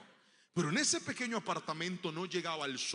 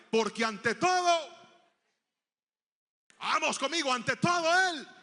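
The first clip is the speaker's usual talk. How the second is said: proud declaration; 10 semitones higher, 11 dB louder than usual. Retold or imitated. Pride before asking credit.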